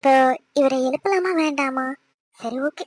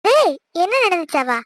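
louder, slowed, mock-outraged repeat of his question; indignant echo; 3 semitones higher, 5 dB louder than usual. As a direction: throw his words back at him in disbelief. Wife echoes husband's feigned forgetting. (கோபமான ஆச்சரியத்துடன் திருப்பிக் கேட்பது)

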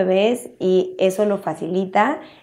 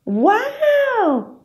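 "¡Guau!" very high, sweeping down; amazed wow. Shown as a demonstration. Parent wowing the baby, very high falling exclamation. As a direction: gasp out a big wow for the baby. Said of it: "no hace el sonido de".

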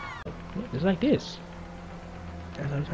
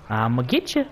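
teasing threat in usual pitch; playful taunt; 2 semitones lower than usual. Pretend. Player chasing someone in game, playful taunt. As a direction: tease it, lifting at the end.

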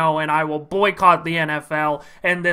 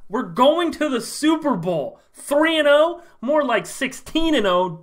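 high, breathless joy at the win; excited disbelief; 5 semitones higher than usual. Acted. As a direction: gush as if the season is saved. Fan thrilled by win.

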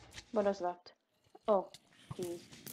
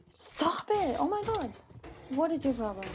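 higher annoyed shout; annoyed yell; 5 semitones higher than usual. Real, not acted. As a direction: snap at the mob. Yelling at mob.

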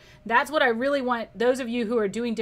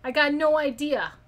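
New York accent; 3 semitones higher than usual. Shown as a demonstration. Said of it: "maybe you were from New York".

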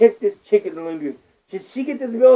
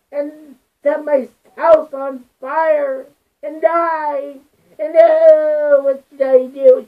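mock whiny victim; 3 semitones higher, slower than usual. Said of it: "and she goes".

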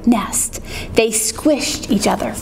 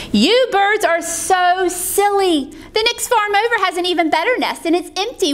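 higher-pitched persuading voice; coaxing Jack; 6 semitones higher than usual. Acted. Jack luring birds away, higher coaxing voice. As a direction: talk them into it, pitched up.

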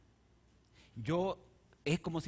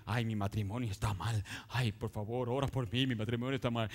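lightly voiced lower, whiny complaining wife; whining wife; 4 semitones lower than usual. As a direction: moan it to the coworker. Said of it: "le dice". (esposa quejumbrosa le llora al compañero de trabajo, voz quejona)

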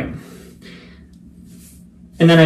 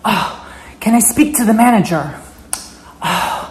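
higher voiced entitled Karen demand; 5 semitones higher than usual. Karen demanding to speak to the manager, higher and haughty. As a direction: ask like an entitled customer. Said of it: "the Karen".

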